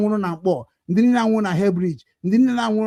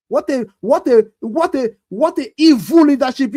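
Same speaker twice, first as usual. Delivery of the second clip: builds louder and higher to "evil"; rising angry outcry; 5 semitones higher, 6 dB louder than usual. Real, not acted. Denouncing fake leadership to viewers, building indignant outcry. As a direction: climb into an indignant shout.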